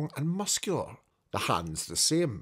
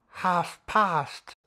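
Scrooge counting; 7 semitones higher, 4 dB louder than usual. Acted.

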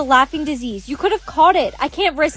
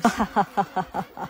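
soft low laughter; 4 semitones lower, 10 dB quieter than usual. Acted. Classmate caught by laughing disease.

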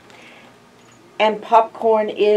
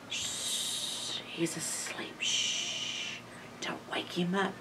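hushed whisper so he stays asleep; whisper, don't wake him; 4 semitones lower, 19 dB quieter than usual. Real, not acted. Reading, child asleep.

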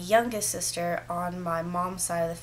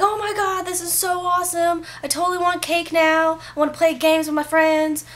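put-on excited kid; 8 semitones higher, 4 dB louder than usual. Imagined kid at surprise party.

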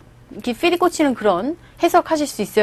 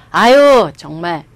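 meddling junior; 5 dB louder than usual. Acted. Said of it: "라고 훈수 둘 때".

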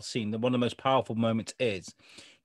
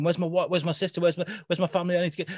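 mild mock panic; 5 semitones higher, faster than usual. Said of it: "he's panicking".

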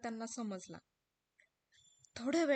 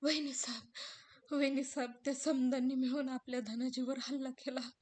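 lightly raised sorrowful telling; grieving servant; 4 semitones higher, 4 dB louder than usual. Acted. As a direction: build toward the loss. Ramu मृत्यू सांगतो. (धनाच्या पडण्याची खबर सांगणारा रामू)

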